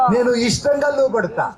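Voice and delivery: a shouted vow, pitch up; cried out aloud. Shown as a demonstration. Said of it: "గట్టిగా అరిచి పలుకు".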